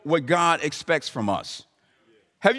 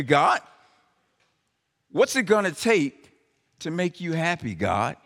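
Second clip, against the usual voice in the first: sarcastic; 2 semitones higher than usual. Acted. Israel answering God with sarcasm. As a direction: throw the questions back at God sarcastically. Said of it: "Can you sense the sarcastic tone".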